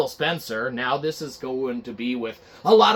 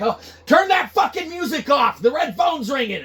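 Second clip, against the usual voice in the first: panicked shout; 10 semitones higher, 4 dB louder than usual. Acted. Staffer panics about red phone.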